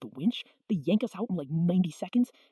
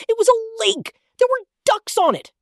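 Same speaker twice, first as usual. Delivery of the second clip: much higher and louder, thrilled; excited exaggeration; 13 semitones higher, 8 dB louder than usual. Kid excitedly exaggerating the puddle to listeners. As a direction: gush about it like it was huge.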